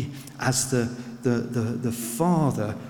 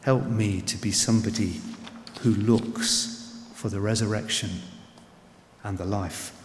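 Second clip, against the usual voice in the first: soft prayer; 4 semitones lower than usual. Shown as a demonstration. Preacher modelling a prayer for the doubting listener, softly. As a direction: pray it gently, as if kneeling. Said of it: "go to God again and say".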